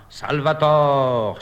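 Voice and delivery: slow grand declamation; declaiming. Acted. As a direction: proclaim it slowly, theatrically. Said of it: "déclame".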